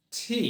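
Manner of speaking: ঠি, said with a puff of breath; aspirated tee. Shown as a demonstration. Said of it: "তাহলে টি না বলবো". (বাতাস ছেড়ে ঠি)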